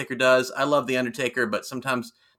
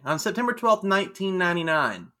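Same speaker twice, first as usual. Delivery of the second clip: ordinary delivery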